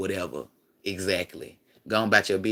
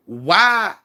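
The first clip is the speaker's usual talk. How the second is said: mock kid whining; 8 semitones higher, 7 dB louder than usual. Kid voiced asking why.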